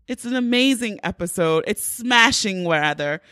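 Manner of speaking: lightly hammed-up British accent; badly faked British accent; mock British accent. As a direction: drag out the words in mock British. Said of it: "I'm doing a British accent".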